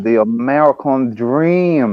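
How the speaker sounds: slow, drawn-out wrestler promo; a hint of a drawling wrestling legend; Dusty Rhodes voice. To friends, quoting the nickname, in a slow wrestler voice. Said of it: "in the voice of Dusty Rhodes".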